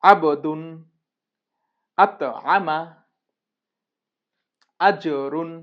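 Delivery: আবদুন, আত, আমা, আজরুন loud with an echo after b, t, j; আবদুন and আজরুন in deliberate, separated practice delivery; qalqalah drill. Shown as a demonstration. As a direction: hit the first syllable of আবদুন and আজরুন hard, bouncing its consonant. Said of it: "এইভাবে করে আমাদেরকে".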